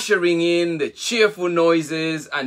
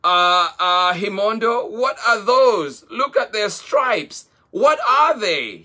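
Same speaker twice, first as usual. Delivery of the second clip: high, loud, stammering curiosity; lightly voiced excited little boy; eager; 7 semitones higher, 4 dB louder than usual. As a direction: ask breathlessly, amazed. Abelo eagerly asks about zebras.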